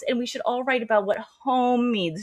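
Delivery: high-pitched girlish imitation; prim bunny. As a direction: mimic a sugary girl making a suggestion. A bunny proposing, voiced.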